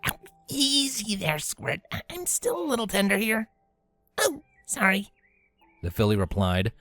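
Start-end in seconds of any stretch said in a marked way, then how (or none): 0.1-3.5 higher, pained but fond; sore and wincing. Acted. Rainbow to Scootaloo after a rough hug, wincing. Hugged too hard, sore. 4.2-5.1 disappointed. Acted. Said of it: "disappointed that she had hurt".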